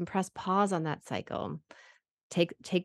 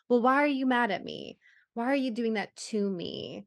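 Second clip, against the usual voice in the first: hurt accusing; 5 semitones higher, 3 dB louder than usual. Pretend. Fused partner reacting to slammed cupboards.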